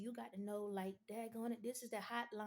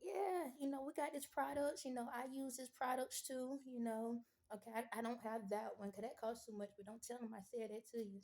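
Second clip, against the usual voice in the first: befriend the customer, lightly played; friendly relating pitch. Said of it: "you gotta relate with 'em".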